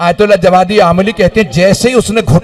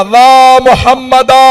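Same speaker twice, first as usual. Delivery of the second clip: drawn-out mourning cry of Mohammada; slow grieving call to the Prophet; lamenting call; 4 semitones higher, slower than usual. Acted. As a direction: stretch the name out like a wail. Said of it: "आवाज देके कहा".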